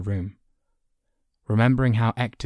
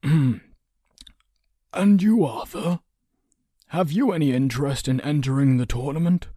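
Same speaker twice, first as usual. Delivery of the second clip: high, lilting, louder question; inquiring counsellor; 7 semitones higher, 6 dB louder than usual. A narrator's reading. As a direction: invite the boy in with lifted voice.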